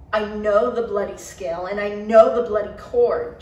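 loud angry holler. A narrator's reading. Johnny hollering back at Garrett, loud. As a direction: shout it right back at him. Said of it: "Johnny hollered back".

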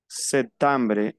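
septembre with an AN sound in the middle. Shown as a demonstration. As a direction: model septembre with EM as AN. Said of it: "Esa se pronuncia an". (septembre, EM pronunciado AN)

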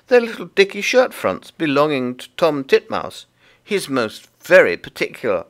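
high, loud little creature voice; busy Tiggywinkle. Acted. Tiggywinkle explains the washing to Lucy, high and busy. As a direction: chatter away as a small fussy laundress.

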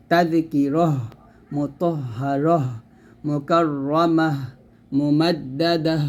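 slow recitation, ending হ voiced as a clear breathy h in মুতাহহারহ; drawn-out Arabic recitation of মুকাররামাহ, মুমাদ্দাদাহ with a final h; tajweed model reading, each word slowly apart; Quranic recitation demo. Shown as a demonstration. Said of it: "এরকম".

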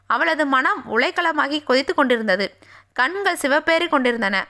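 plain reading voice

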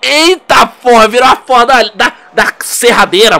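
loud, high, slowed exclamation; shocked loud drawl; surprised outburst. Real, not acted. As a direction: react to a sudden twist. Surprise at game change.

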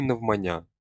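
«навмання» stressed firmly on the final «я»; correct stress. Shown as a demonstration. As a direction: put the stress on the last syllable of «навмання». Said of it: "наголос не плаваючий". («навмання» з наголосом на останній склад «я»)

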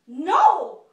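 loud, high cry of "No!"; wife screaming at her husband to stop; shout. Acted. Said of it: "Madame Orso shouted".

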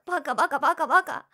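fast loud flustered rant; embarrassed outburst. Acted. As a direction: pound out the words in embarrassment.

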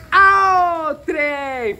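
drawled Minas Gerais "Ao trem!", the vowels stretched out; a playful Minas Gerais greeting, "Ao trem!" sung out long; mineiro accent. Shown as a demonstration. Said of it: "Como é que mineiro fala?".

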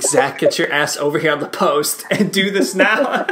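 a half-laughing mock of his teammate's broad Geordie yell; jokey Geordie-accented call to get on the post; imitated angry Geordie shout. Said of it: "I obviously can't do it".

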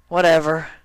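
dismissive high Dash. Acted. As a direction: brush it off as Dash. Dash rolls her eyes.

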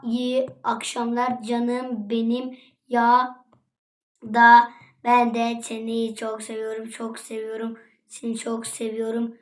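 soft, slow sweet-talk; put-on lovey murmur; mock tender. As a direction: draw it out softly and lovingly. Mock sweet message read slowly.

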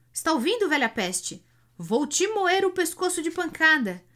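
bully the driver loudly; threatening shout. A narrator's reading.

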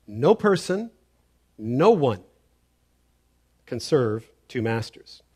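"No person, no one" punched, with a pause after each; very emphatic. Retold or imitated. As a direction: declare it in separate, weighty pieces. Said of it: "very emphatic statement".

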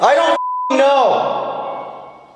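very high, frantic answer; panicked shout. Real, not acted. Shouting to friend about a noise, high panicked cry. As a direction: yell it back high, really rattled. Frightened answer to other cell.

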